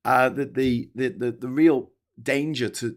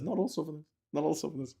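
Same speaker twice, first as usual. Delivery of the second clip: mock slogan; 4 semitones higher, 7 dB quieter, faster than usual. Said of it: "animation that says".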